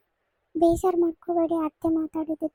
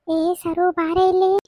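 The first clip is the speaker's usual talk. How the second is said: calling out; 5 dB louder, much slower than usual. Acted. Mother-in-law calling daughter-in-law over.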